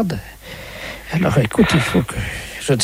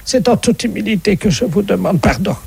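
mock humble plea; 6 semitones higher than usual. Fake inspector begs forgiveness.

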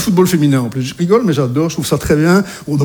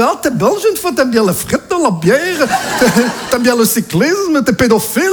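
mock Belgian teasing; 2 semitones higher than usual. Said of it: "il me fait".

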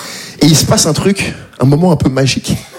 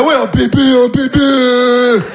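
mock enthusiasm; 4 semitones higher, much slower than usual. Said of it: "Je suis là".

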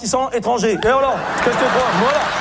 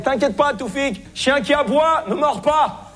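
instructeur qui gueule; 5 semitones higher, slower than usual. Retold or imitated. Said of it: "il me gueulait".

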